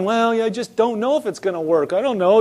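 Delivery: lightly acted self-doubt; doubtful yielding. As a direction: voice a Christian half giving up. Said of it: "that's yielding to him".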